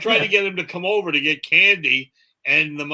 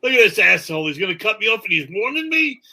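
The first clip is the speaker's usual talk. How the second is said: higher, lightly acted indignation; indignant New York driver; 5 semitones higher, faster than usual. New York driver seeing a turn signal, mock indignant. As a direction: climb in pitch with mock outrage. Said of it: "In New York".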